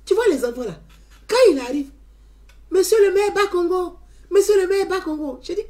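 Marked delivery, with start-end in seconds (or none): 2.7-5.4 high, loud sing-song chant of the mayor's title; children calling out. Retold or imitated. Kids hailing the mayor in the street, loud chant. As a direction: call his name out like excited kids.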